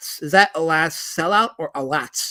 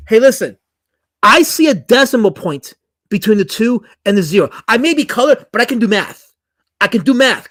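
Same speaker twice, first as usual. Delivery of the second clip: loud, indignant comeback, stepping up in volume; indignant loud retort; 3 semitones higher, 6 dB louder than usual. Real, not acted. Streamer loudly rebuts an insulting donation message, indignant. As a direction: put the chatter in his place, loudly.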